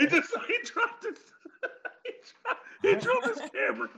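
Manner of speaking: high, laughing through the words; helpless laughter breaking up the sentence; cracking up. Real, not acted. Cracking up over dropped camera.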